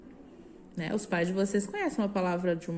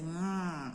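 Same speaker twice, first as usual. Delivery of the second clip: nasal hum; 9 dB quieter than usual. Shown as a demonstration. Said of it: "você faz um hum".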